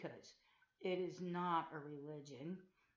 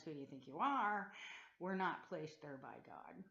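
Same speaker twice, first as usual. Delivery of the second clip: louder imitated shout at the listener; mock yell; 3 dB louder than usual. Imitating elders who yelled at the Witnesses, raised mock yell. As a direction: throw it out like the angry elders did. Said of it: "the men who were screaming in our faces".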